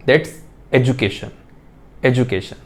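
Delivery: education said slowly with a soft j, ed-ju-kay-shun; the teacher models education for the class, slowly, with a j sound. Shown as a demonstration. Education pronounced slowly with a j sound, ed-ju-kay-shun. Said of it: "pronunciation ... एजुकेशन ही है".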